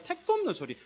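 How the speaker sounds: high, sharp scoff; scoffing dismissal. Real, not acted. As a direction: wave it off as absurd. Dismissing the idea. (말도 안 된다는 듯 높게 코웃음)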